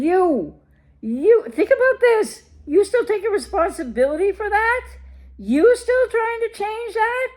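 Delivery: high incredulous questioning; incredulous challenge. Real, not acted. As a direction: push them to see it, disbelieving. Challenging the viewer's choices.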